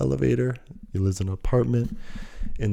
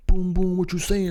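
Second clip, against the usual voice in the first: loud, high hype shout; hyped photo pose; 9 semitones higher, 3 dB louder than usual. Retold or imitated. Friends striking a pose for a picture, hyped shout. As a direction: pump it up like posing for the camera.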